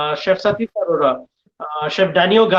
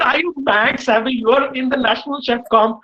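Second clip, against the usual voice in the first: raised, scolding voice, retelling an angry chef; half-acted telling-off, higher pitch; angry outburst; 5 semitones higher than usual. Chef scolding a student who skipped tasting, mock angry. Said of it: "and he loses it".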